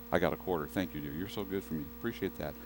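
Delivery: low, soft thanks off to the side; quiet aside. Real, not acted. Preacher thanking a helper for a quarter, in a low, quiet aside. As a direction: drop voice right down for a private word.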